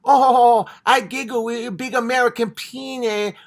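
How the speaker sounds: high giggly caricature voice, ho ho ho giggles; hammed-up submissive giggler; mock geisha. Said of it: "walking ten feet behind them going".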